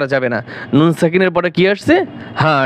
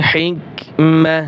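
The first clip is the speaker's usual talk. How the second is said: slow recitation; much slower than usual. Shown as a demonstration. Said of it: "ওয়াকফ করলে এই গোলতা হা হবে".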